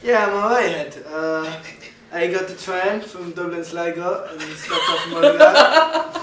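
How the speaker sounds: mock Irish lad voice; hammed-up Irish accent. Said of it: "He's gonna show you how to do an accent".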